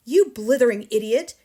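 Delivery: loud, scornful outburst; angry shout. A narrator's reading. Headmistress abuses confused pupil, shouting angrily. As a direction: bellow the insult at the pupil. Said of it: "shouted the Trunchbull".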